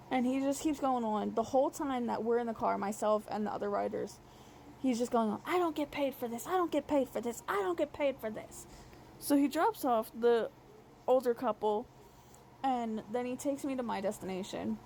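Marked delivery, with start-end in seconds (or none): 5.5-8.7 put-on higher, whiny baby-talk repeat; mock him whining like a small child; imitated lisping baby voice, over and over; fake baby voice. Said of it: "a fake lisp, baby voice tone".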